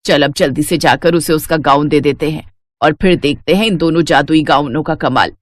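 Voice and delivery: ordinary delivery, nothing marked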